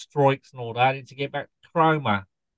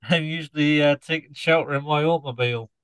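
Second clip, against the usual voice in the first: put-on Norfolk scarecrow accent. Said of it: "explain the accent".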